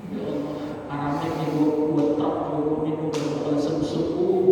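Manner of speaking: lightly voiced hopeless buyer at the stall, stretched out; mock inner voice. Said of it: "Dia ke warung tuh hatinya". (suara hati pembeli yang putus asa, pelan dan lebih rendah)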